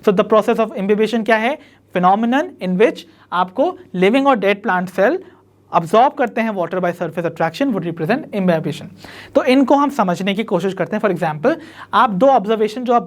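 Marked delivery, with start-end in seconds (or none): 1.9-8.9 slow, deliberate definition reading; teacher spelling out a definition slowly for notes; slow dictation. Shown as a demonstration.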